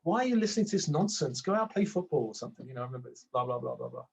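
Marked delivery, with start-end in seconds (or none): 0.0-2.7 higher, mildly mocking reproach; voice in his head. Inner voice telling him to play football, mild mock reproach. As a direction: play the nagging voice in your head. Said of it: "I used to hear these voices in my head".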